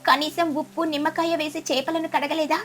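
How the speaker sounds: disgusted spitting out. Acted. Sparrow tasting raw-smelling fish pakodi, mildly disgusted. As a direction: complain as if spitting out bad food. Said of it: "గట్టిగా ఉమ్మేస్తూ".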